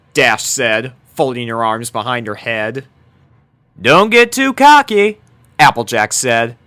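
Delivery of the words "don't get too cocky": high, loud mock caution; teasing warning. A narrator's reading. Applejack warns Dash not to get cocky, high and loud. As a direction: rib her for being cocky.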